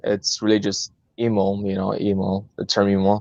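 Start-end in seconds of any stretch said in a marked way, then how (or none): 1.2-1.5 "emo" said slowly, like the word emo; pronouncing emo. Shown as a demonstration. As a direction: spell out "emo" carefully, like the music term. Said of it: "if you wanna break it down to pronunciation".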